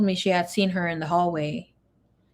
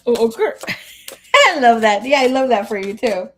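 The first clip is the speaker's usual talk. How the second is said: delighted gush; 3 semitones higher, 7 dB louder than usual. Real, not acted. Delighted by viewer news.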